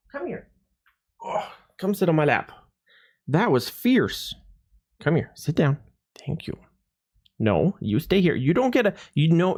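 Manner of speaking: high mock-scolding for a feisty cat; pet talk. Real, not acted. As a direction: fuss over the cat in a high coo. Talking to the cat.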